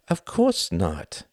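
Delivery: slow, smug smile in the voice; smiling. Acted. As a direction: concede smugly, smiling. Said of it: "smiled Wendy".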